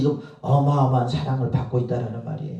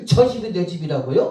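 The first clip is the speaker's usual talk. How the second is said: higher, louder incredulous question; retold astonishment; 4 semitones higher, 5 dB louder than usual. Missionary answering God about the promised house, acted surprise. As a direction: act out mild disbelief at good news.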